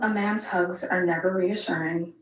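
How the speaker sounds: ordinary delivery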